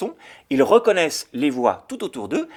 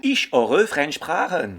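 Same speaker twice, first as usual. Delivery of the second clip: slow German with a French accent; French learner repeating; 3 dB louder, much slower than usual. Shown as a demonstration. Host repeats the German after the model, French-accented. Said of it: "écouter des langues ou des accents".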